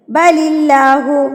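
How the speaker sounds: slow बलिल्लाहु with a light, smiled l; smiling thin lam. Shown as a demonstration. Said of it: "smile करिए".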